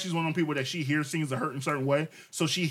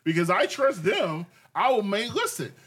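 slow, mocking higher quote, rising toward the end; mimicking partner's words; 3 semitones higher, slower than usual. Husband mimics wife's excuse during argument, mocking. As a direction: parrot her words back slowly and mockingly. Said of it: "but then you said".

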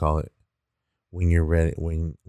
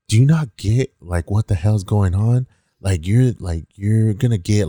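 louder, emphatic retold exasperation; infuriated cop; 3 semitones higher, 4 dB louder than usual. Cop pulls the kid aside to scold him, retold frustration. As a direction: imitate a fed-up cop losing patience. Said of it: "fucking infuriated".

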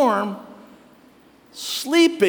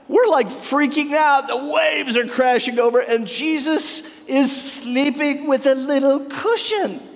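mock frantic disciples; 5 semitones higher than usual. Disciples in the storm, complaining that Jesus sleeps, worked up and indignant. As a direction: play the disciples freaking out in the storm.

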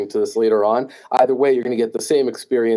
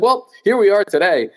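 hammed-up New Jersey accent, higher and louder; 10 semitones higher, 4 dB louder than usual. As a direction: lay the Jersey accent on thick. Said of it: "my thick New Jersey accent just gets worse".

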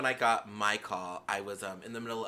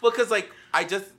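laughing; 13 semitones higher, 13 dB louder than usual. Real, not acted. Laughing while talking.

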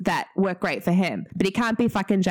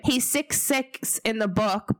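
put-on Kiwi accent; 3 semitones higher, slower than usual. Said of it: "but I sounded so Kiwi then".

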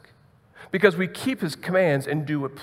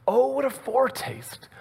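whispered hymn line; 7 semitones higher than usual. Retold or imitated. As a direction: whisper the hymn words on breath alone. Hymn line breathed softly.

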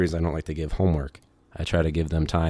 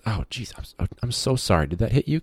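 Santo apologizing; 5 semitones higher than usual. Retold or imitated.

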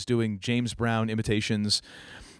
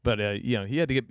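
usual speaking voice

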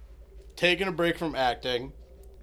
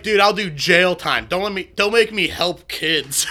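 1 laughing whine; 3 dB louder than usual. Retold or imitated. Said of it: "He's like".

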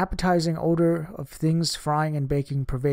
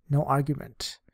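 usual speaking voice

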